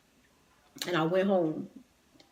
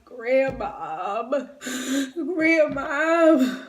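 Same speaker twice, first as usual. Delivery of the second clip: crying out; 6 semitones higher, 5 dB louder, much slower than usual. Retold or imitated. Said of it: "I just started crying".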